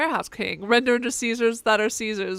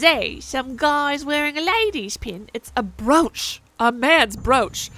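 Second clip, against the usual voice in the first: slow, louder huffy protest; mock indignant; 2 semitones higher, 6 dB louder, slower than usual. Streamer voicing the character defending his brooch, slow and loud. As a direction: insist on it slowly, offended.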